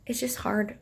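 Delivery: soft whispered admission. Real, not acted. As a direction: whisper it, worn down. Admitting pregnancy is tough.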